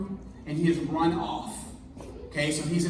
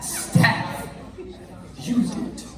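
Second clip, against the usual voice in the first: Morgan Freeman impression; 13 semitones higher, much slower than usual. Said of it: "my best Morgan Freeman impression".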